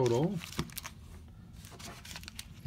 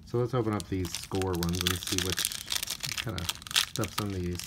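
tired voice. Real, not acted. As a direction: sound a little tired. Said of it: "I sound like a little tired".

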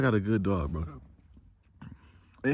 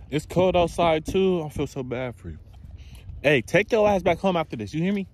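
high, firm scolding of a stray dog; 6 semitones higher than usual. Real, not acted. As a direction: tell the dog off like a worried owner. Sending the stray dog home.

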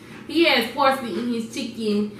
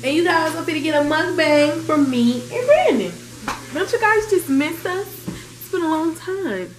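excited; 5 semitones higher than usual. Real, not acted. Excited announcement to viewers.

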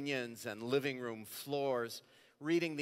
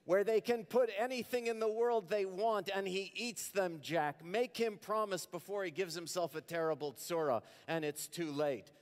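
high, louder bitter nagging; bitter mother; 7 semitones higher, 4 dB louder than usual. Acted. Mother begging the father to make the son promise, high and bitter. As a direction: spit out the worry like a curse. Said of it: "she says bitterly".

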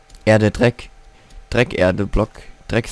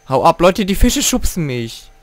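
annoyed yell; 6 semitones higher than usual. Real, not acted. Fish pushing him.

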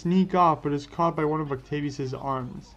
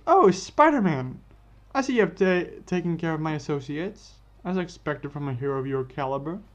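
villain taunting Spider-Man, mocking; 3 dB louder than usual. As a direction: greet the hero with hammed-up scorn.

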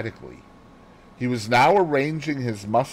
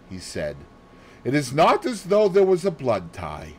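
higher, grave and emphatic; grave Poirot; 6 semitones higher, 4 dB louder than usual. Acted. Poirot gravely tells Hastings blood tells, higher. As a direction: press home the lesson. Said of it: "nodded his head gravely".

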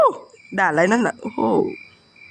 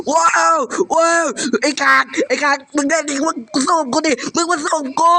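taunt; 5 semitones higher than usual. Real, not acted. Taunting monster after escaping.

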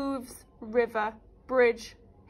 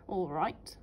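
snarled; 6 semitones lower, 5 dB quieter than usual. Acted. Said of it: "snarled the troll".

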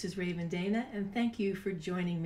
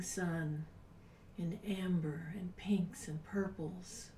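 soft guided meditation. Acted. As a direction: guide them gently into calm, breathy and unhurried. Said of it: "It's time to do a meditation".

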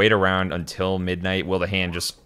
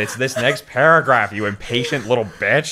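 irritated; 4 semitones higher, 5 dB louder than usual. Real, not acted. Irritated at being rushed to skim.

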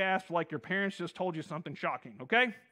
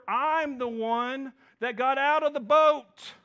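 higher, louder, indignant Peter; boasting Peter; 5 semitones higher, 5 dB louder than usual. Retold or imitated. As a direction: puff up and argue you walked with Jesus. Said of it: "I imagine Peter kinda going".

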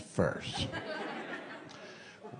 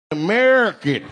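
mock proud shout; 4 semitones higher, 7 dB louder than usual. Loud punchline voiced as cowboy.

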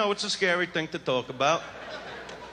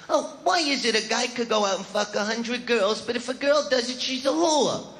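mildly higher mock woman complaining; whiny woman mock; 4 semitones higher than usual. Comic mocks women griping about double standards. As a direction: mimic a woman's whine, slightly raised. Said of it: "you always hear 'em with their little conversations".

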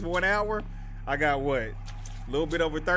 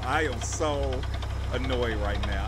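"I am so annoyed" broken up, pause after "so"; low voice, each word of "I am so" separate; emphatic annoyance; 4 semitones lower than usual. Real, not acted. Player shut out by the gate, annoyed, leaning on "I am so". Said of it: "I'm so annoyed".

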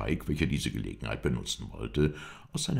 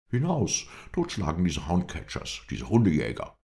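high, forceful rallying cry; shouting; 5 semitones higher, 5 dB louder than usual. A narrator's reading. Lindsay rages at the dog-catchers, shouting. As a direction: burst out loud, urging an attack. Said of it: "schrie Lindsay".

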